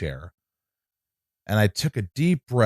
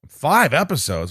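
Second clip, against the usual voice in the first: slow, disbelieving repeat; incredulous; 6 semitones higher than usual. Retold or imitated. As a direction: stretch it out in disbelief. Incredulous reply to agent.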